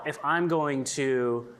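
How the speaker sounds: ordinary talk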